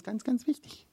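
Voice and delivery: mock how important they claim it is; ironic exaggeration. Mocking church trends, ironic high "ganz wichtig".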